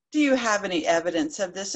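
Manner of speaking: lightly put-on official tone; mock authoritative. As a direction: puff up like the wolf, a little fast. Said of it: "trying to sound authoritative like the wolf".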